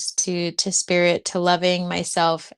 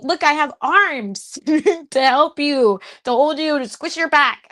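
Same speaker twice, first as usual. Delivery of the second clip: laughing tenderness; 7 semitones higher, 4 dB louder than usual. Acted. Offering hugs to the chat.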